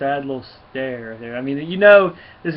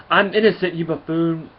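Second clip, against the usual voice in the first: higher, louder outraged protest; indignant snap; 5 semitones higher, 7 dB louder than usual. Acted. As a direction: throw it back at him, insulted. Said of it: "He goes".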